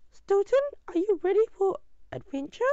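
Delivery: loud, deep caller's voice. A narrator's reading. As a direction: put on a deep voice, issuing a challenge. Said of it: "said a deep voice".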